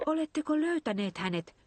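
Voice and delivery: high, eager asking; eager question. A narrator's reading. Pehmo on the phone, asking eagerly. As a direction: lean in, hoping for good news. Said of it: "kysyi Pehmo innokkaasti".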